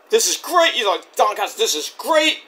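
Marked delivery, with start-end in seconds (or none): 0.1-0.7 high, imitated delight; mock-happy, lifting at the end. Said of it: "He's all happy". 1.5-2.4 higher, mildly imitated delight; a touch of mock glee; retold happiness, rising at the end; happy. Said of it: "He's all happy".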